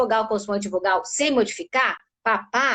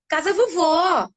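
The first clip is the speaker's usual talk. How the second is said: put-on higher, drawn-out child's phrase; three-year-old child; 5 semitones higher, slower than usual. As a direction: play a little child telling something. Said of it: "Mas ela fala".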